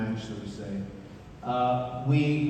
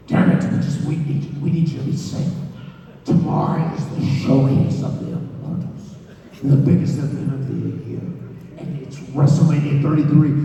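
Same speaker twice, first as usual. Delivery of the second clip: rough, forceful boss impression; hammed-up promoter proclaiming the big event; Vince McMahon; 3 dB louder than usual. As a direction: imitate a grandiose boss on the phone. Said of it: "That was Vince McMahon who just called me".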